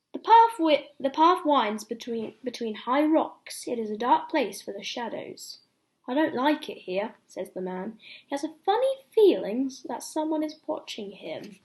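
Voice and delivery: lively read-aloud for little ones; bedtime story reading. Acted. Ben reading a bedtime story to children, lively storytelling. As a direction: tell it like a picture book at bedtime.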